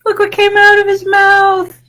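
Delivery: high, loud amazed cry; excited exclaim. A narrator's reading. Teacher shows the children the burped-out seed, amazed. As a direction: gasp it out in wonder.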